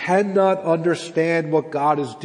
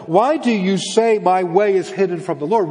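loud, raised-pitch incredulous questioning; impassioned challenge; 5 semitones higher, 4 dB louder than usual. Acted. Preacher voicing God confronting the exiles' complaint, impassioned. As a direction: push the questions out with rising exasperation.

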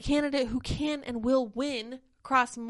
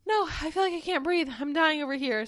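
higher and louder, hammed-up can't-breathe complaint; mock dramatic protest; 5 semitones higher, 5 dB louder than usual. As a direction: overplay the struggle, loud and high. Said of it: "And I'm like".

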